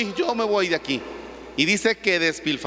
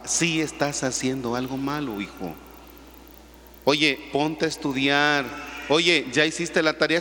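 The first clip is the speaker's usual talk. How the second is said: stern father; 4 semitones lower, 3 dB quieter than usual. Retold or imitated. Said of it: "te dice tu papá".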